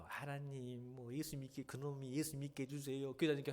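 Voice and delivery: monotone pretend prayer, just going through the motions; insincere prayer. Believer prays for an enemy without meaning it, insincere prayer. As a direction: recite a mock-pious blessing in one level tone. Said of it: "거짓말로".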